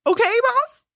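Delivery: high-pitched whiny plea; lightly voiced begging twin; mock pleading henchman. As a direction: beg the boss in a silly high voice. Playing twin pleading with boss.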